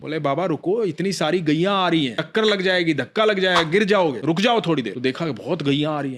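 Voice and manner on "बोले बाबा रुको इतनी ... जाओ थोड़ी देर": put-on raised, higher boy's call to stop; a cowherd boy shouting to wait. Boy calls out warning the old man.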